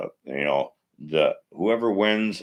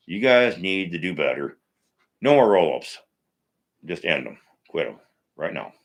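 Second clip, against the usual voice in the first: firm louder demand, no more; real irritation; 3 dB louder than usual. Real, not acted. Host telling WWE writers to stop roll-ups, angry. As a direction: lay down the law, fed up. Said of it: "Sorry, I'm getting pissed".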